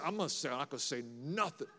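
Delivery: low, quick aside to oneself; muttered self-reminder. Acted. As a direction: mutter a private resolution under your breath. Self-talk on walking into social situation.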